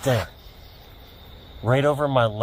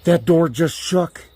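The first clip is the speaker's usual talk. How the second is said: rattled; 5 semitones higher, slower than usual. Real, not acted. Spooked by voice and rattling door.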